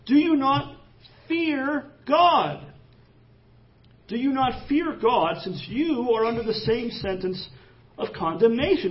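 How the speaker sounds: a dying thief rebukes the mocking thief, sternly. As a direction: scold him as a condemned man scolds another. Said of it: "He rebuked him".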